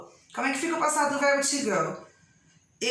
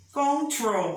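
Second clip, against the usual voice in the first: "Control" as con-TROL, falling at the end; stress on last syllable. Shown as a demonstration. Teacher repeating to show the strong ending, stress on last syllable. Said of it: "o final é forte".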